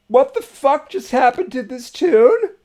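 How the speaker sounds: genuinely baffled outburst; real shock. Real, not acted. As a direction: ask it as if the song just ambushed you. Reacting to sudden song change.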